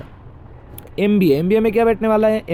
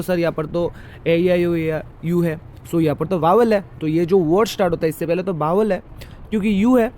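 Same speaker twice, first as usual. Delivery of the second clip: imitating a student. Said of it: "आप पूछ सकते हो".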